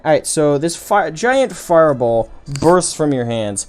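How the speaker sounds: game master's scene setting. Acted. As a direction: paint the blast vividly for the players.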